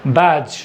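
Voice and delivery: बैज said slowly and clearly with no d sound; careful teacher demo of बैज; model word. Shown as a demonstration. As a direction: say बैज as badge with the d silent. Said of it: "इसको हम लोग क्या बोलेंगे?".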